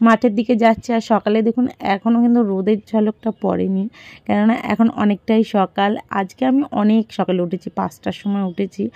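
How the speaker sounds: talking with a toothbrush in mouth; while brushing teeth. Real, not acted. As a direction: speak around the toothbrush. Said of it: "এখন brush করতে করতে".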